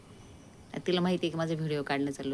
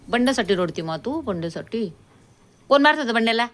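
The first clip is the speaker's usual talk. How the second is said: a touch higher, teasing telling-off of the dog; lightly raised teasing pet voice; mock scolding pet talk; 4 semitones higher, 6 dB louder than usual. Real, not acted.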